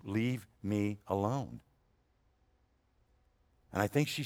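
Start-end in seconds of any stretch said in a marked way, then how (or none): 0.0-1.6 slow and softer, a sleepy wife brushing him off; mock sleepy wife. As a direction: drag it out half asleep. Wife woken a second time.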